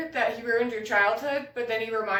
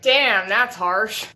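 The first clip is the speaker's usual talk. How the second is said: slow, loud drawled damn; 6 dB louder, much slower than usual. Retold or imitated. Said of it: "your abuser was like".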